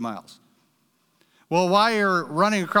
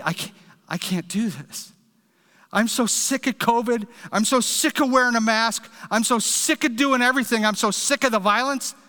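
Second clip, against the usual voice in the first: higher, exasperated complaining; fed up; 5 semitones higher than usual. Retold or imitated. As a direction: let every "sick of" spill out in frustration. Voicing a weary churchgoer.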